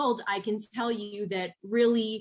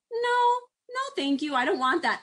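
1 gentle no; 9 semitones higher than usual. Shown as a demonstration. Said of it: "tonality of our conversation".

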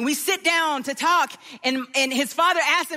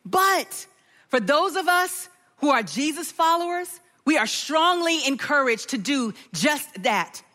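sermon preaching. Acted. Pastor teaching the congregation about forgiving debt, earnest. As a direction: draw the congregation in.

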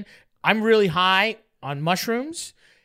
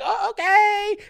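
high, slow oh okay; drawn-out hesitant agreement; hesitant girl; 12 semitones higher, 3 dB louder, much slower than usual. Retold or imitated. Trish answering the invite, slow and unsure. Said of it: "she's like".

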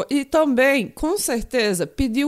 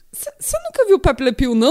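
whispering; 5 dB louder than usual. Retold or imitated. Retold retort to friends.

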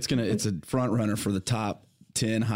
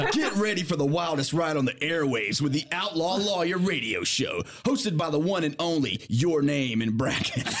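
wrestling promo; 4 semitones higher than usual. Shown as a demonstration. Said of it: "Do a promo".

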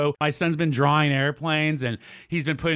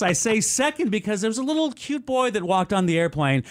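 attendant announcement; 6 semitones higher than usual. Retold or imitated.

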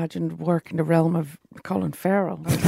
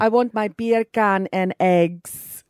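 slow mock Jamaican accent. Shown as a demonstration. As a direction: drawl it in a bad Jamaican accent. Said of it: "how to do a Jamaican accent easily".

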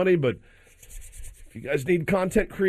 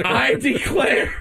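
slow Southern gentleman drawl; 8 semitones higher, much slower than usual. Pretend. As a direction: drawl it like an old Southern gent. Mock Southern gentleman reply.

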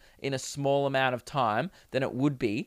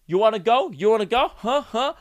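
higher, louder mock challenge; pitched-up American dude squaring up; American pub brawler; 6 semitones higher, 4 dB louder than usual. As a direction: goad someone like a pub tough, lightly hammed-up. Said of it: "dudes at pubs in America like".

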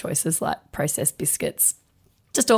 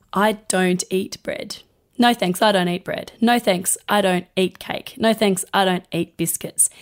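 firm refusal. Shown as a demonstration. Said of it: "it is far more powering to say".

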